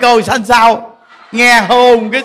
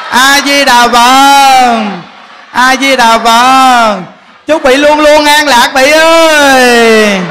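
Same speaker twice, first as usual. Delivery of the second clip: drawn-out blessing; 2 semitones higher, 5 dB louder, much slower than usual. Real, not acted. Closing blessing to the congregation.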